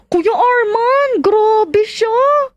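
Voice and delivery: high, overwhelmed squeal of disbelief; high-pitched astonished exclamation; stunned, thrilled. Real, not acted. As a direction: cry out amazed at a huge gift. Stunned by a big viewer gift.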